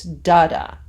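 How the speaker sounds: "da-da" as DA-da, first syllable punched; trochaic stress. Shown as a demonstration. Teacher shows the trochee as the reverse, trochaic stress. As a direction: hit the first "da" hard, drop the second. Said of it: "is the reverse".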